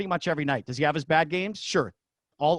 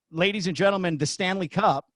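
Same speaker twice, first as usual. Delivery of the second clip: PA announcer call; 3 semitones higher than usual. Retold or imitated. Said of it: "P A announcer".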